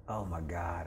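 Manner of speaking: soft, breathless oh my God; panicked whisper. Retold or imitated. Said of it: "starting to freak out".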